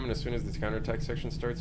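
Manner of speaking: quiet, fast mutter under breath. Real, not acted. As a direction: read it to yourself quickly. Rereading chat under breath.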